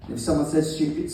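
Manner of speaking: usual speaking voice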